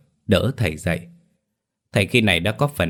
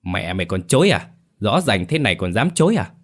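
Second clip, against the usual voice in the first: gritted-teeth anger. Acted. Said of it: "Ông Luyện nghiến răng".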